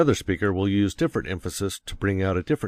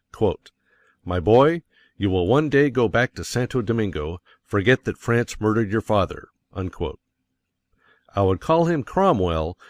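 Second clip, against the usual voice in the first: oratorical speech. Acted. Oration read aloud as an example.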